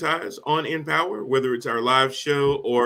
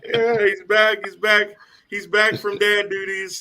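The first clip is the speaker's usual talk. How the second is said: excited; 9 semitones higher, 4 dB louder than usual. Real, not acted. Host echoes hype, laughing.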